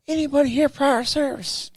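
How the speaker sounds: high, called-out imitation of a sergeant; drill sergeant calling. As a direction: call over a room of recruits.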